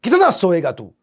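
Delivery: mock yell of a mother waking her sleeping son; mother yelling to wake child. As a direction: shout him out of bed like a fed-up mom. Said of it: "चिल्ला के उठाती हैं".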